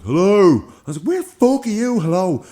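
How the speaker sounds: loud, high yell down the phone; frantic high call into the phone; shouting into phone. Retold or imitated. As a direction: shout hello into a dead line.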